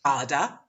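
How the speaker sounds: "garda" with a loud "gar", weak "da"; first-syllable stress. Shown as a demonstration. Teacher confirming the answer, stress on the first syllable. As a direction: lean on the first beat of "garda". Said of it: "you would be right".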